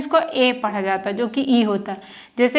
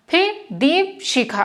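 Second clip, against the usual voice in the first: slow careful syllables; 4 semitones higher, slower than usual. Shown as a demonstration. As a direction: spell it out slowly for a learner. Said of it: "पर शिखा को जल्दी बोल दिया जा रहा था".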